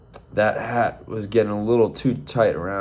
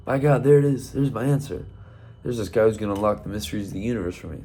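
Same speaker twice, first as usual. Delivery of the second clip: excited rooster; 3 semitones higher, faster than usual. Acted. Roy excited seeing the monk.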